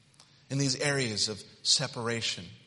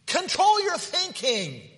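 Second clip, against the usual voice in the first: higher, slow insistent command; stronger exhortation; 5 dB louder, slower than usual. Acted. Preacher pressing the congregation, slow and high. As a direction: drive the words home, slowly. Repeated with more force.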